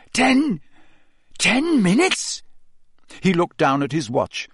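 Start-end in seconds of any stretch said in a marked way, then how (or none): 0.1-2.4 high, slow alarmed question; panicked disbelief. Acted. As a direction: stammer it in shock. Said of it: "Harry croaked".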